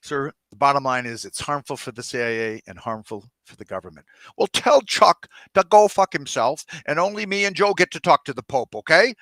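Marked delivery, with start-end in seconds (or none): 4.4-9.1 loud, furious order to the aide; angry yelling. Acted. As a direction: bark it out, fed up.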